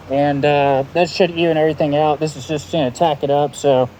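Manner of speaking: muffled behind a respirator mask; through a respirator. Real, not acted. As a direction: talk through a paint respirator. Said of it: "sorry, I got my respirator on".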